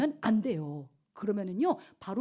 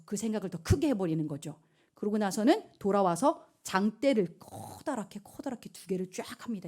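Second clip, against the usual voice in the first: ordinary delivery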